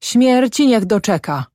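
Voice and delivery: high-pitched curse, no full shout; angry cry. A narrator's reading. Farmer's wife curses the farmhand, crying out angrily. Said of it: "krzyknęła Ślimakowa".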